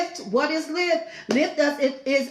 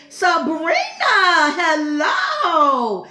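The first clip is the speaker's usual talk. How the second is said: excited hello; 2 semitones higher, 5 dB louder, much slower than usual. Real, not acted. Greeting a viewer warmly.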